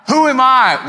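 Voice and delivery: high, loud imitated call; yelling out. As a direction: shout it out in Aramaic. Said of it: "he's yelling out".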